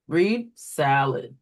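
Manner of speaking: slow, clear "Read salad" as to a student; slow teacher prompt. Shown as a demonstration. Teacher modelling a correction to a student, slow and clear. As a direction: model the prompt slowly for the kids. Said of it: "what you would do for this one, read the word".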